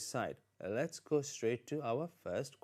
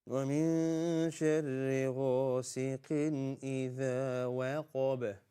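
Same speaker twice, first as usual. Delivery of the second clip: Quran recitation. Shown as a demonstration. Recites verse for learners.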